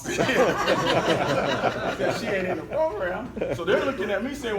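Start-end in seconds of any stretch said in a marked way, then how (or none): 0.0-3.3 laughing through the words, louder. Real, not acted. Dreading facing the mom, laughing loudly. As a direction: chuckle out the quote.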